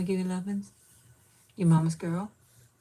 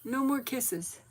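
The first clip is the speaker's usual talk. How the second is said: higher, mock-annoyed dog voice; voicing the dog; 6 semitones higher, slower than usual. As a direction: play the dog fed up with kisses. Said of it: "she's like".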